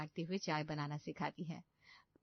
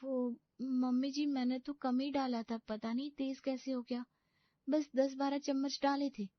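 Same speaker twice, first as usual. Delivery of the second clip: put-on higher, girlish bride's voice, dismayed; a pampered young bride panicking to herself; young bride's voice, dismayed at waking early; naive young bride; 7 semitones higher than usual. Bride explains timidly.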